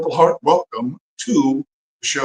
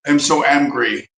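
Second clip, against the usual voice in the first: mock angry, slow; 3 dB louder than usual. Real, not acted.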